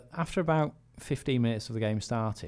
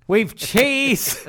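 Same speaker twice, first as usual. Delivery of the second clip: very high, loud mock barman; stubborn barman; 12 semitones higher, 7 dB louder than usual. Barman refusing to budge on fillings, stubbornly emphatic. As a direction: repeat it emphatically, as if to someone slow.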